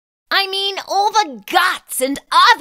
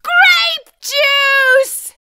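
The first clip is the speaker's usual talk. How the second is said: loud, high horrified cry; horrified shriek; 8 semitones higher, 4 dB louder than usual. Acted. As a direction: shriek it in dismay. Horrified at grape stains.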